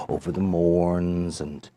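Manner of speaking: soft, slowing hush for the dark; hushed storytelling. A narrator's reading. Storyteller hushing his radio host over the dark hills.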